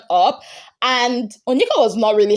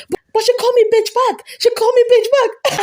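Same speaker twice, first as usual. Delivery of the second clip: put-on much higher, fast, indignant childish whine; whining Wani; 13 semitones higher, 4 dB louder, faster than usual. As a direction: whine it fast and high like a wronged kid. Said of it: "Wani was telling Handi".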